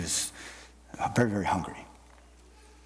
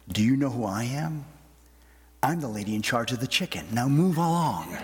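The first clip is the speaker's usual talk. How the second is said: firm, unbudging retort with a hint of a laugh; steely. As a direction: put the governor in his place, lightly. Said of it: "with steel in her eyes".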